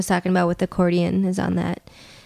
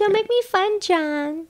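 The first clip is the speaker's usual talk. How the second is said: higher, rising mock quote; uptalk; 10 semitones higher, slower than usual. Shown as a demonstration. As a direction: lift it up at the end. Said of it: "Yes, hey, a little more".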